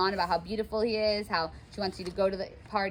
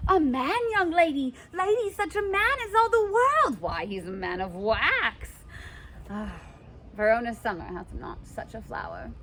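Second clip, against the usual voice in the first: much higher, louder, thrilled nurse voice; gushing nurse; 3 semitones higher, 3 dB louder than usual. Acted. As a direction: swoon over the suitor. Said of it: "the nurse is like".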